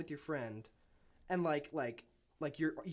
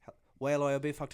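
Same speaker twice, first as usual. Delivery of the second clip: put-on Irish accent; 4 dB louder, faster than usual. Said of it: "like the Irish accent".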